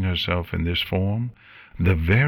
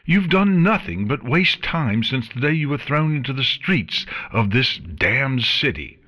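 scolding queen, raised voice; angry; 5 semitones higher than usual. Acted. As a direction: berate her with contempt. Queen berates the pony.

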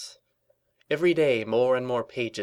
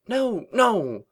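emphatic; 11 semitones higher, 4 dB louder than usual. Acted. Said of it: "Twilight corrected Rarity".

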